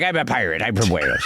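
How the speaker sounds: a hint of a Welsh pirate accent, amused. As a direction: ham up a Welsh pirate, chuckling. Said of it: "Welsh pirate voice of like".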